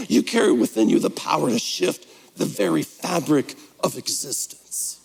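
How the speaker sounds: hammed-up inspirational read, "existence" trailing into a whisper; mock the lofty guru line, drawing out the last word; mock grandiose quote. Shown as a demonstration. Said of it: "Who talks like that?".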